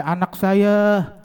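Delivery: drawn-out, mildly plaintive answer; mock tearful mother. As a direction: imitate a grieving mother, stretching the words. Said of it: "ada ibu-ibu nangis di kuburan baru".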